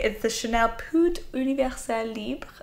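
Chanel said with a put-on French accent; lightly Frenchified brand name. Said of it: "I tried there with my French accent".

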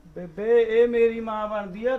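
put-on loud, slow drunk grievance; slow, loud drunken whine; drunken complaint. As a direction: drag it out loud like a sulking drunk. Drunk son complains loudly.

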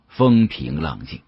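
ordinary delivery

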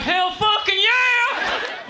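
high, drawn-out Southern redneck whoop; redneck yell. Acted. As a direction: holler it slowly like a gung-ho redneck. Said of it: "You ask a redneck if he wants to go".

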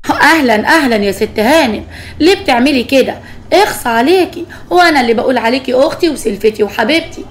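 whining, rising angry accusation; a wronged sister-in-law crying foul to her mother-in-law; tearful angry complaint. Acted. Sister-in-law accusing Lubna before mother-in-law, tearful and indignant. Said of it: "وعماله تعيط".

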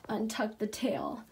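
ordinary talk, nothing marked

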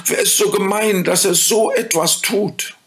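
put-on high, bright-eyed child voice asking; lightly voiced startled child; curious children. A narrator's reading. Children asking the fairy, in a high child voice.

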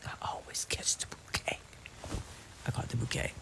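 soft unvoiced whisper of I caught the bouquet; hushed playful whisper; whispered aside. Real, not acted. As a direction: confide it in a secret whisper. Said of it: "whispered repeat of boast".

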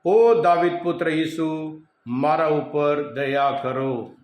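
slow, drawn-out plea for mercy; retold beggar's cry, stretched out; imitated calling out. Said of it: "બૂમ પાડવા લાગ્યો".

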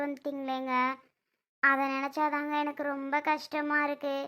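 quiet, subdued confession. Acted. Wife quietly regretting to her husband, subdued and sad.

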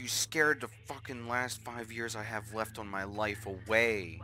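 loud, high startled outburst. Real, not acted. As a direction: caught off guard, yelling. Jump scare in game.

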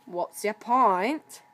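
slow, loud challenge; defiant. Acted. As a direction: snap back defiantly. Diesel retorts.

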